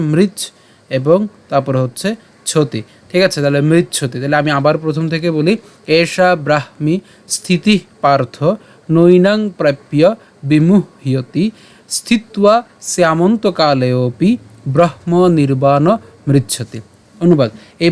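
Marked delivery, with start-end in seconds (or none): 0.1-0.4 মৃচ্ছ cut off as "mrich"; stop at the ch. Shown as a demonstration. Teacher breaks up the word, মৃচ্ছ halted at ch. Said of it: "চ পর্যন্ত উচ্চারণ করলাম". 5.9-16.8 slow, measured Sanskrit shloka reading; verse recitation. Shown as a demonstration. Teacher presents today's shloka to learners, slow recitation.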